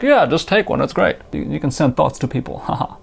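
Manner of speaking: a touch of a mock celebrity accent; mocking Elon Musk's accent. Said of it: "I like his accent".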